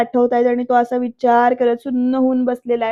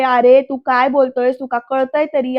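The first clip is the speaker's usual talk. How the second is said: mild mock yell; retold reproach, louder at the start; scolding question; 3 dB louder than usual. Aunt questions Varad's words, scolding. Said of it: "असं विचारते आत्या इथे ओरडून".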